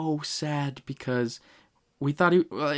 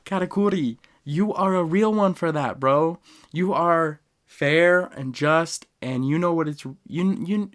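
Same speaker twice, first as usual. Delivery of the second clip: higher and louder, choked-up praise; emotional gushing; 4 semitones higher, 5 dB louder than usual. Retold or imitated. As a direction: gush over Katakuri, near tears. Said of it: "I started crying my eyes out".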